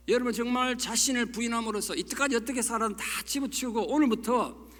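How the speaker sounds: building, emphatic sermon appeal; preaching exhortation. Real, not acted. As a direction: drive the blessing home to the whole congregation. (힘주어 축원하는 설교조)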